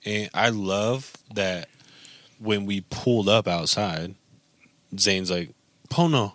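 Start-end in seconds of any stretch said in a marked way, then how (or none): 5.9-6.3 excited call. Retold or imitated. Son calling out greeting.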